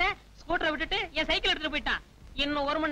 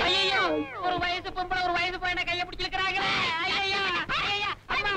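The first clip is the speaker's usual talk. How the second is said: hammed-up alarm; 3 semitones higher than usual. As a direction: wail to the bystanders in mock outrage. Calling out for help, acted alarm.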